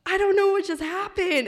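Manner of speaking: high, loud retold shock; stunned disbelief. Driver just backed into a tree, stunned. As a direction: relive the panicked bewilderment. Reliving the moment after the crash.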